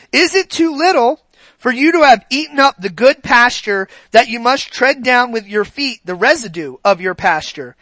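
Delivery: solemn, emphatic Bible reading; scripture reading. Acted. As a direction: read the rebuke out to the flock. Reading Ezekiel to congregation.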